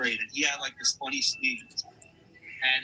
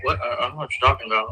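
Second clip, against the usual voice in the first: playing innocent; 2 semitones lower, 7 dB louder, much faster than usual. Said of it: "I'm like".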